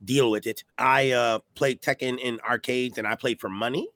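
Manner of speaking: rough voice from a cold; talking through a sore, gravelly throat. Real, not acted. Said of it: "my voice sounds gravelly".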